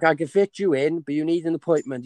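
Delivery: imitated shouting. Barber to customer with little English, mock shouting. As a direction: imitate a barber calling out over a language gap. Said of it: "he's shouting, like, talking slow".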